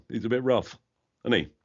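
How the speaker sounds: put-on rough London accent; Prince Harry. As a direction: imitate a rough-edged London lad. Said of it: "That's, uh, Harry".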